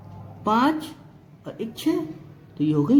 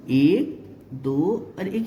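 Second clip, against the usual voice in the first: slow counting; 6 semitones lower, much slower than usual. Shown as a demonstration. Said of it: "slow counting for the class".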